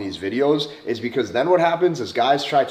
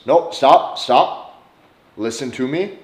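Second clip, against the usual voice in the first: louder, insistent halt; firm stop; 5 dB louder, slower than usual. Shown as a demonstration. Stopping fast-talking parents mid-argument, firmly. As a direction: cut them off and take control. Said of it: "in an argument with your parents".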